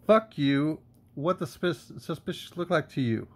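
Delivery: indignant retort. Acted. Citizen answers a cop who called them suspicious, indignant.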